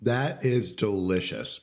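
talking while chewing; mouth full. Real, not acted. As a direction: say it through a bite of pie. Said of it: "I'm sorry to be chewing into the microphone".

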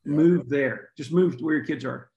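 imitating a firm order, first words punched; mildly voiced no-nonsense command; blunt radio counselor. Radio counselor tells a divorced dad what to do, blunt. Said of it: "That's how she talked".

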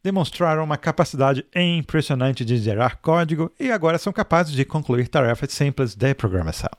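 lightly voiced gloomy robot; a hint of a weary android; Marvin voice. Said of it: "eu vou fazer o Marvin". (voz de robô Marvin, leve)

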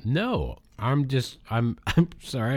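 talking while crunching ice. Real, not acted. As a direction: speak around a mouthful of ice. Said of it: "I'm crunching ice into a mic".

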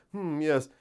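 lightly voiced pretentious intellectual; mock intellectual. Shown as a demonstration. Telling a listener how to sound intellectual, mock-intellectual. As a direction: say it with a touch of pompous scholarly musing. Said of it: "try to sound intellectual and say".

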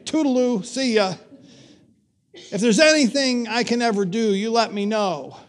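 mock brush-off. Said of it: "That's like saying".

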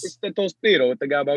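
lightly put-on Italian-American accent; a hint of Italian-American accent, playful; mock Italian-American accent. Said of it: "we're talking in the Italian accent".

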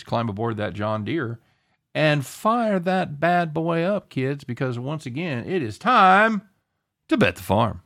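big folksy segment intro, building up; hokey farm announcer. Acted. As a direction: ham it up like a country show host.

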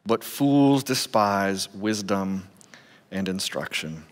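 measured reading of scripture to a congregation. Acted. Pastor reading Proverbs to the congregation, measured reading. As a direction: read the verses steadily, like from the pulpit.

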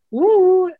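excited woo. Retold or imitated. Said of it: "the only time where I feel like".

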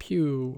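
little falling "pew" like a shot; pew arrow sound. Shown as a demonstration. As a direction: imitate Cupid's arrow flying. Imitates Cupid's arrow being shot. (pilelyd, "pew")

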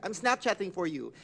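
lightly voiced friend caught out, covering up; Lele. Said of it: "And Lele's like".

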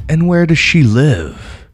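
a hungry wolf playing friendly. A narrator's reading. Wolf questions the girl.

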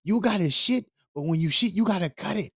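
grandma scolding about the clogged toilet, high voice. Retold or imitated. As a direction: mimic a nagging grandma. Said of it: "She's like".

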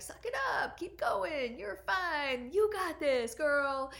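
high, loud tough-love push; pushy driver voice. Retold or imitated. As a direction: bark it like a drill coach who won't let you stop. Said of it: "this driver, um, was like".

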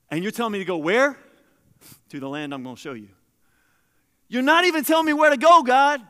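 exasperated Abraham arguing with God; Abraham protesting. Acted. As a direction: throw the complaint up at God.

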